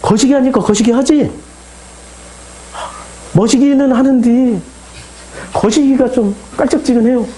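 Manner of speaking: lightly acted Jeolla exchange; Jeolla dialect. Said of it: "전라도 말로 제가 번역해서".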